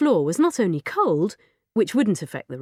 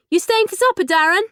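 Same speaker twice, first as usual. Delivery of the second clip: loud, high call with a rising ask; 12 semitones higher, 6 dB louder than usual. Acted. Mum asking the boy from upstairs, loud call. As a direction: call the question down the stairs. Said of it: "Mum called".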